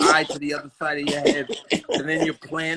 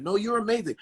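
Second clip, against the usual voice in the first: higher, softer placating praise; mock compliment; 6 semitones higher, 5 dB quieter than usual. Fan trying to compliment Tyson, soft mock compliment. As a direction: imitate a timid admirer. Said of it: "when you compliment".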